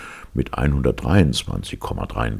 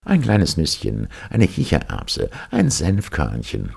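mocking; 4 semitones higher than usual. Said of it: "um sich doch einmal an dem Gelehrten zu rächen".

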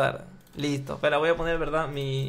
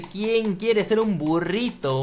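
game show announcer; slower than usual. Acted. Host presenting a guest on his quiz show, grand announcer voice.

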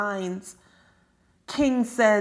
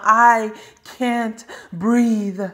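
slow, louder, drawn-out gasp of a plea; dying plea; 5 dB louder, much slower than usual. Acted. Poet voicing a man under a knee, slow desperate plea. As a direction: stretch each word like the last breath.

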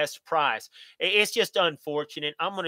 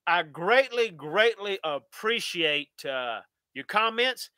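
emotional; slower than usual. Real, not acted. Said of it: "getting a little emotional".

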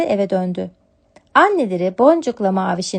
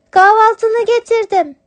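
much higher, louder kitten wishing her mother well; 12 semitones higher, 7 dB louder than usual. Acted. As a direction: kitten brings breakfast to sick mother. (yavru kedi sesi, şefkatli)

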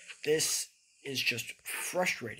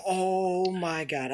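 very slow drawn-out groan; despairing groan; 4 semitones higher, 4 dB louder, much slower than usual. Real, not acted. Streamer back at the start, very slow groan. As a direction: drag it out in despair.

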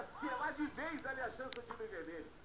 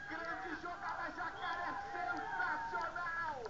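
higher, louder, slowly stretched praise; excited commentary; 6 semitones higher, 4 dB louder, much slower than usual. Real, not acted. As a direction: build to sensacional. Commentator hails great play.

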